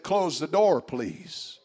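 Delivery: lightly imitated car voice; a hint of a robotic female car voice; automated voice. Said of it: "a female automated voice".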